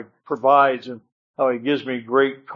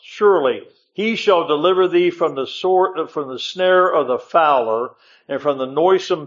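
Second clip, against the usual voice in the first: raised, solemn preaching read of the Psalm; scripture reading. Acted. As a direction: proclaim the verses to the congregation. Reads Psalm 91 aloud.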